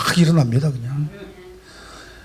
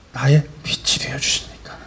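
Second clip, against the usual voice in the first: hushed; 5 semitones lower than usual. Real, not acted. Preacher drops to hushed words.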